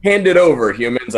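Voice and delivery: demanding. Acted. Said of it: "I'll say".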